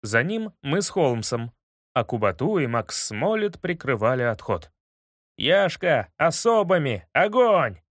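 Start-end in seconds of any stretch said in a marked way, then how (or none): 5.4-7.8 loud battle cry, rising higher; shouting. Acted. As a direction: yell the order to fire. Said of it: "кричал за спиной Юра". (громкий крик)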